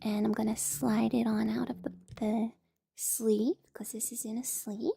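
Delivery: soft ASMR whisper. Real, not acted.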